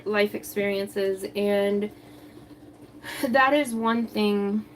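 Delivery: breathless, winded talk; speaking while out of breath. Real, not acted. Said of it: "Sorry, I'm really out of breath".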